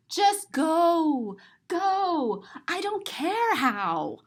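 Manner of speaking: gasping, pushy urging; urgent plea. Acted. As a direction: shoo him out impatiently. Gasp then urging Marvin.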